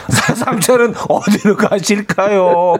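sing-song mock invitation; mock polite. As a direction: stretch it out with exaggerated courtesy. Sarcastically acting out overeager matchmaker.

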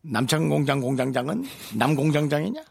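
shouted tongue-twister comeback; mock shout. Real, not acted. Tongue-twister pun shot back. (장난스럽게 외치는 말)

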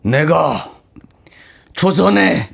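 slow, grand period-drama proclamation; dramatic declaration. Acted. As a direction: declare it like a queen. Parody of Empress Myeongseong line.

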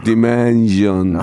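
very slow, low, drawn-out robot voice; mock AI pronunciation, low and dragged; AI voice impression. Shown as a demonstration. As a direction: stretch each syllable like a machine. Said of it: "에이아이 발음으로 들어볼게요".

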